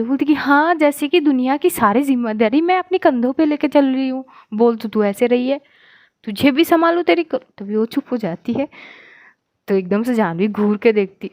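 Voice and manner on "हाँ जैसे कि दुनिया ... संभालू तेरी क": rising irritated rant, louder and higher; annoyed outburst. Acted. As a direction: snap back, building until cut off. (झुंझलाकर चढ़ती आवाज़)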